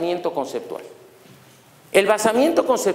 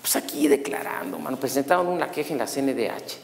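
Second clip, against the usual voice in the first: low, soft reply as the second cop; imitated police partner; 4 semitones lower, 5 dB quieter than usual. Accused policeman answers his partner, lightly voiced low cop. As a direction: play the other officer, low and subdued. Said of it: "estaban dos policías judiciales".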